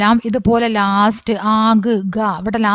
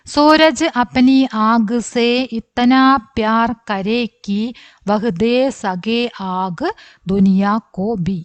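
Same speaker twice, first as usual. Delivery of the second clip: measured recitation, each word set apart; slow reading aloud; 2 semitones higher, slower than usual. Shown as a demonstration. Teacher reading the line again slowly for students, recitation. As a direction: read the whole poem line slowly, word by word. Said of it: "ഒന്നുകൂടെ വായിക്കാം".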